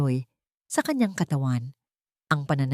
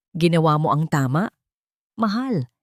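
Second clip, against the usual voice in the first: a touch of false sweetness; mild sugary husband's voice; fake tenderness. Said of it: "puno ng huwad na paglalambing".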